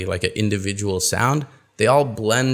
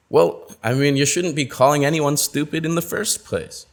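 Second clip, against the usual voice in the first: scolding reply; 4 semitones higher than usual. Acted. Acted reply in dialogue.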